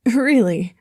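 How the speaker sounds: loud startled squeak; squeaky voice. A narrator's reading. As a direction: crack up into a choked squeak. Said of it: "Logan coughed in a squeaky voice".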